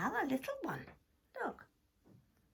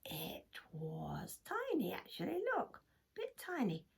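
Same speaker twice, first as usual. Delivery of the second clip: whisper; 3 semitones lower, 7 dB quieter than usual. A narrator's reading. Whispered reveal.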